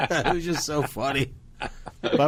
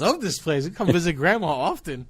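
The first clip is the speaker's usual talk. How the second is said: put-on girlfriend delighted; 5 semitones higher than usual. Girlfriend loving the nursing home visit, playful imitated delight. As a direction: imitate her happily soaking it up. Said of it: "Kerry's like".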